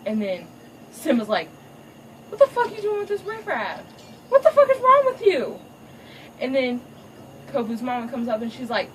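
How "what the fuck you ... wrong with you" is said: high furious shout at his daughter; angry father yelling. Retold or imitated. Father catches daughter with riffraff, furious yelling. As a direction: explode at her, voice cracking up high.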